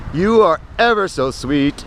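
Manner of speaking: slow, careful "You are ever so sweet"; carefully pronounced. Retold or imitated. Reciting his pickup line to a woman, slowly and carefully pronounced. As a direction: draw out "You are ever so sweet", each word distinct. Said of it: "I pronounced it perfectly".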